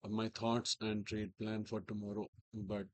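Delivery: hoarse, strained from a sore throat. Real, not acted. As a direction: talk through a sore throat. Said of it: "I have a sore throat".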